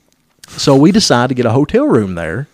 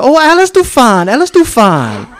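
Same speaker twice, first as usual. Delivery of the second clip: mock broken English; 12 semitones higher, 5 dB louder than usual. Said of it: "She said".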